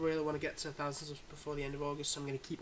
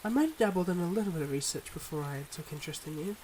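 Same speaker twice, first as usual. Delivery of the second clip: measured, heartfelt confession with long pauses; earnest secret-life lover. Acted. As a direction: confess gently but seriously, pausing between thoughts. Acts a secret-life lover's farewell.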